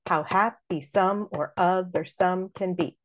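slow, even iambic beat; measured scansion reading; beating out iambs. Shown as a demonstration. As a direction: beat out the line in da-DUM rhythm. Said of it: "beat out".

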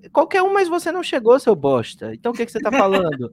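high, loud angry jab; angry outburst. Acted. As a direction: snap at him like an insult. Ranting at an imagined critic.

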